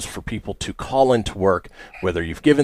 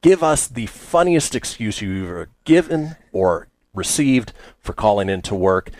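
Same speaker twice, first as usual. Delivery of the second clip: upbeat call-in announcement; lively DJ read; radio host pitch. Acted. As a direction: sell the phone lines to listeners.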